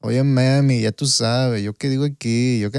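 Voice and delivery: lightly put-on Puerto Rican accent in Spanish; a hint of exaggerated Puerto Rican Spanish; mock Puerto Rican accent. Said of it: "but with the Puerto Rican accent".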